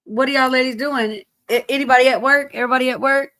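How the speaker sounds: hollering out to see who's on; calling out. Real, not acted. Streamer calling out to her ladies, loud and upbeat.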